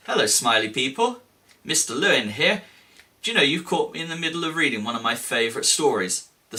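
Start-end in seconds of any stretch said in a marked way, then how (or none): 0.1-2.6 mock surprise. Teacher pretends to be caught reading, surprised. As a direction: act startled at being caught.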